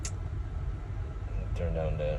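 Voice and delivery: talking over a loud fan. Real, not acted. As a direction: speak up over fan noise. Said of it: "sorry about the fan".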